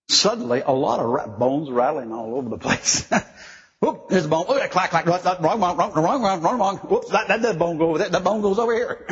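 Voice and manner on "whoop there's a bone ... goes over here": playful excitement. Acted. Acting out bones clattering.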